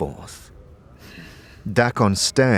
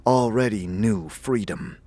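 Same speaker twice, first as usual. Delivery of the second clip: solemn storyteller voice with whispered asides; legend recitation; 4 dB quieter than usual. A narrator's reading. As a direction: intone the ancient tale, drop to a whisper at times. Circle recites the Gith legend.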